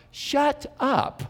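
high, drawn-out imagined telling-off; impolite rebuke. Retold or imitated. Preacher imagining confronting the noisy woman, impolite rebuke. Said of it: "I was less polite in my mind".

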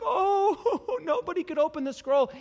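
hammed-up high, loud sobbing lament; mock weeping. John despairs over the sealed scroll, mock weeping. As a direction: imitate John wailing in despair. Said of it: "when John was weeping".

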